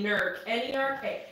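nerk said with a hard r, nə˞k; local pronunciation. Shown as a demonstration. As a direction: say nerk like an Ohio local, r-colored vowel. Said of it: "If you don't say it like that".

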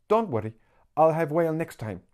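high, bright-pitched seller's patter; eager little street seller. Acted. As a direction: rattle off the menu like an eager young hawker. Voices Little Mama.

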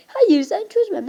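high, slow mock girl's voice; a hint of a bossy little girl; mimicking the girl. Quoting the girl who refused help, high slow mock voice. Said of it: "Kız diyor".

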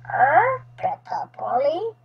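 lightly squawked parrot mimicry; a hint of a pet parrot; parrot echo. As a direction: squawk first, then parrot the words back. Parrot seems to echo the question.

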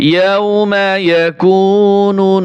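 slow chanted recitation; Quran recitation. Shown as a demonstration. Teacher chants the word for students, slow recitation. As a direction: draw the words out as in recitation.

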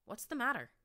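alarmed call. A narrator's reading. Narrator finding a friend in tears, alarmed call. Finds companion kneeling, weeping.

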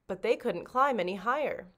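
usual speaking voice

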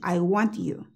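'I want you' softly, T held in want; touch tongue for the T in 'want' without releasing it; T made, not exploded. Shown as a demonstration. Teacher telling students 'I said it', unexploded T. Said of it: "Yo la dije".

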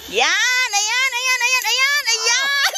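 rising, eager encouragement; excited cheering. Real, not acted. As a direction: cheer them along. Cheering on a climb. (masiglang pagcheer)

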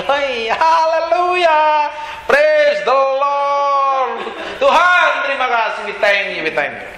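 drawn-out, high ecstatic worship cry, then winding down; mock joyful praise. Preacher shows the church joyful praise after trials, drawn out and high. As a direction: ham up a joyous hallelujah that fades. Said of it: "Ntar kalau ngalami".

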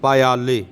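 ਪਾਇਆਲੇ sounded out syllable by syllable; ਪਾਇਆਲੇ as a model for students; careful pronunciation. Shown as a demonstration. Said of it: "ਪੱਪਾ ਈੜੀ ਨੂੰ ਸਿਹਾਰੀ ਲੱਗਿਆ".

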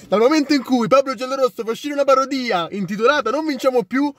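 breathless italian goal commentary. Real, not acted. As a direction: shout the goal news, thrilled. Excited goal reaction opening vlog.

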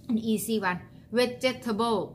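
vegetable said slow as Thai "เวจ-เท-เทเบิ้ล" with a final "โบ"; Thai-style vegetable. Shown as a demonstration. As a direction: stretch vegetable out the Thai way, vej-tay-ta-bo. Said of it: "มาวิ่งบอกคนไทยก็เหมือนกัน". (ออกเสียง vegetable แบบคนไทย ช้าๆ)

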